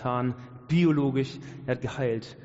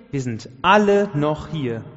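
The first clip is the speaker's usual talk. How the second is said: retold shout; 2 semitones higher, 8 dB louder, slower than usual. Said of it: "Und dann Hals durchs Gefängnis".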